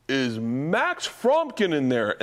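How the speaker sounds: slow, stretched-out Santa query; imitating Santa. Uncle as Santa asks for the boy by name, slow and booming in imitation. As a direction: draw out the child's name playfully. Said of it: "Then he'd go".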